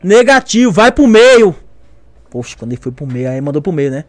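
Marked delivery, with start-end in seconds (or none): 0.0-1.5 loud, higher-pitched refusal; mock military bellow; imitated shouted order. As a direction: command it like a drill instructor. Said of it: "falando, gritando".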